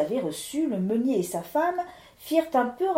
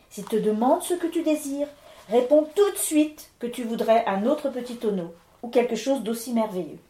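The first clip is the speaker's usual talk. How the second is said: Claudine's voice; 4 dB louder than usual. Acted. Claudine advising her husband.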